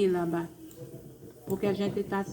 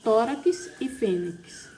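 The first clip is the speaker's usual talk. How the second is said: slow example words; slower than usual. Shown as a demonstration. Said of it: "Vejamos aqui outros exemplos".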